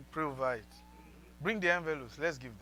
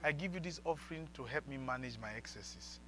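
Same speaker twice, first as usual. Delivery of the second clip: prayer; 5 semitones lower, 10 dB quieter than usual. Shown as a demonstration.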